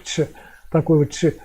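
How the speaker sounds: "ч" as a sound between soft "ч" and "ц"; между «ч» и «ц». Shown as a demonstration. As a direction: demonstrate the isolated in-between "ч". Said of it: "между мягким «ч» и «ц»". («ч» отдельно, с оттенком «ц»)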